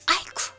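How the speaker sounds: sudden loud cry of pain; sharp ouch as she falls; startled yelp. Acted. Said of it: "하는 소리와 함께".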